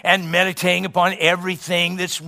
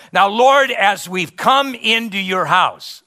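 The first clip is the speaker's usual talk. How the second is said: imitating a churchgoer's prayer, raised pitch; mock church prayer; 3 semitones higher, 4 dB louder than usual. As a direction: intone it like an opening prayer in church. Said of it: "are prone to pray".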